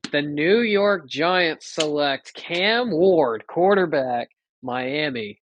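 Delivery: slow, formal pick announcement; draft announcer. Pretend. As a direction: read the pick like the commissioner. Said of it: "You're the draft announcer now".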